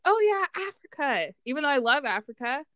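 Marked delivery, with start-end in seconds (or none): 0.1-1.3 mock dismissive.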